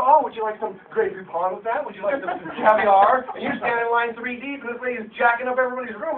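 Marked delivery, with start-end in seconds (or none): 0.0-3.3 posh mock offer. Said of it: "We walk in and go".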